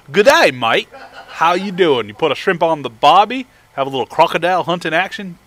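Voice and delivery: mock Australian accent, deliberately cheesy; bad Australian accent. Streamer greets Australian viewer in a bad Australian accent. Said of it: "That was the worst".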